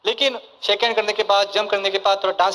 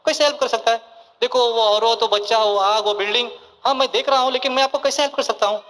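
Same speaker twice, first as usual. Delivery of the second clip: lightly voiced Sachin, puzzled; 2 semitones higher than usual. Bystanders beg Sachin to save the child, he asks how, puzzled. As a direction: play Sachin baffled, not sure how to help. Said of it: "तो सचिन बोलता है".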